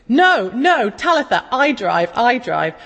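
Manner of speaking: a hint of a stubborn two-year-old; toddler insisting.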